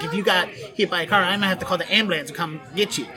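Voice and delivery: Baltimore slurring of words into one another; Baltimore accent, words smashed together. Shown as a demonstration. Host showing how Baltimore smashes words together, Baltimore accent. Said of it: "we smash all the words together".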